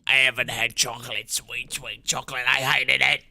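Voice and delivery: a hint of a croaky old lady craving chocolate; mildly imitated cartoon grandma. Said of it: "looks like the grandma from SpongeBob that's like".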